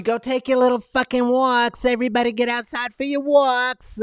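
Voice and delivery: teasing impression of Fauci; mock Fauci. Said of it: "Even according to, Anthony Fauci".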